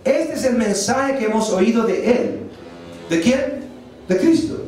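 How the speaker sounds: measured, emphatic Bible reading; solemn public reading, falling away at the close; Scripture reading. Real, not acted. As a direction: proclaim it phrase by phrase, with pauses. Reads Scripture to congregation.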